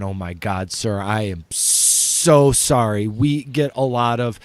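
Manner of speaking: mildly flustered, imitated apology; apologizing. Owner apologizes to the prank caller, flustered apology. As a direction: stretch out a mock-mortified apology. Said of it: "she started apologizing".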